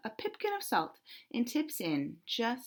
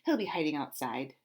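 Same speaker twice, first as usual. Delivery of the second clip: scoffed; 5 semitones lower than usual. Acted. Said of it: "scoffed the cat".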